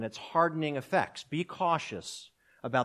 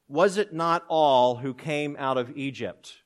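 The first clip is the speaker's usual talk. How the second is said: slow and louder, each word weighed; dramatic answer; 5 dB louder, slower than usual. Acted. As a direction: slam the answer home slowly. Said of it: "The author dramatically answers".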